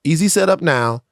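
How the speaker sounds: smooth, slow ad-read voice. Acted. Host reading a sponsor ad to listeners, smooth ad voice. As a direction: read it like a polished sponsor spot.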